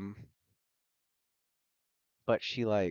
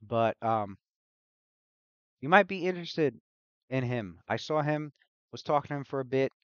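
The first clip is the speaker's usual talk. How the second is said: lightly voiced loopy mage, louder; hyperactive mage, scattered; 3 semitones higher, 7 dB louder than usual. Loopy mage rambling to Luna after bumping into her, scattered. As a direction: think aloud in fits and starts, a bit raised.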